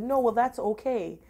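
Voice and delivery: lightly mocking own defensive reply; retold flustered protest. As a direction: hurry to wave it away.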